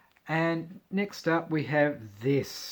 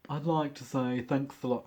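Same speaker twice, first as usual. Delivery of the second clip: drag queen voice. Retold or imitated. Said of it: "that's my drag queen voice".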